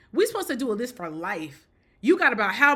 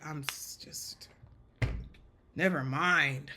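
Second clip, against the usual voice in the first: defeated whisper; 7 semitones lower, 5 dB quieter, slower than usual. Retold or imitated. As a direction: trail off to a whisper and give up. Voicing defeated reasonable person.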